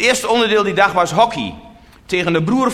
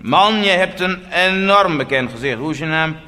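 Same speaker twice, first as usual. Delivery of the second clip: insistent stranger. Retold or imitated. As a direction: imitate someone stubbornly insisting. Stranger insists he knows the face.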